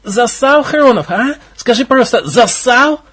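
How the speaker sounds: high mocking taunt. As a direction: needle him from below. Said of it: "Отчётливо донеслось из-под пола".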